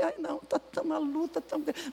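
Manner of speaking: soft, whining complaint; whiny lament. Retold or imitated. Complaining woman whines softly about her struggle. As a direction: moan it out in pity. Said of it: "só anda lamuriando".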